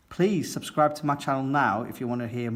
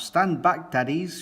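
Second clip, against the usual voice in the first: higher, louder firm order; shouted warning; 5 semitones higher, 3 dB louder than usual. Acted. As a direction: warn them off with a mild shout. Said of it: "shouts Miss Rabbit".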